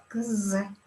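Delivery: Kz said as a k then a buzzing z. Shown as a demonstration. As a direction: give Kz a k and a voiced z. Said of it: "And when between two vowels".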